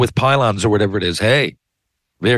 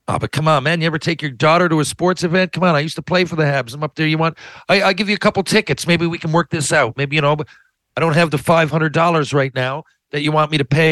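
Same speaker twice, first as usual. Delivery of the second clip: mock pleading caller; 4 semitones higher than usual. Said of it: "pleading caller role-play".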